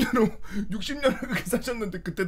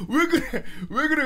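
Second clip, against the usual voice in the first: a hint of a worried grandmother, higher; 5 semitones higher, 3 dB louder than usual. Grandmother asking the screaming boy, lightly voiced worry. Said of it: "할머니가".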